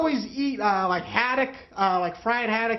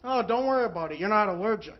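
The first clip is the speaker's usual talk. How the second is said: soft, offhand, a much quieter mother; nonchalant mother; 3 semitones lower, 6 dB quieter than usual. Retold or imitated. Mother brushing off her son's panic, softly nonchalant. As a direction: shrug it off like nothing. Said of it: "my mother nonchalantly looks at me".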